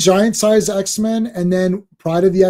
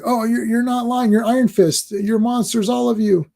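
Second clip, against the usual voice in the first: mock villain rant; 7 semitones higher than usual. Acting out villain's comic lines.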